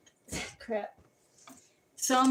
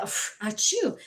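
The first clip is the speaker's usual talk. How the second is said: fake sneeze. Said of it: "And then I said".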